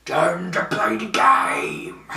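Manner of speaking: slow, eerie whisper in the dark; imitated whisper. Entrance theme as lights go out, slow whisper. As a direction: hiss it out slowly like a ghost. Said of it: "Like that".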